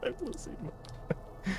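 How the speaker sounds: slow words breaking into silent giggles; stifled laughter. Real, not acted. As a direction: fight back the laughter and lose. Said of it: "trying so hard not to laugh".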